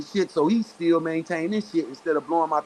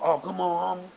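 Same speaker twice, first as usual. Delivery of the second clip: slightly raised, wheedling retold protest; mock pleading; 4 semitones higher than usual. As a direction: mimic someone backing off and appealing. Mimics opponent softening his tone.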